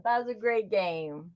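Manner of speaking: soft echo. Real, not acted. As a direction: echo it back quietly to yourself. Repeats her own line.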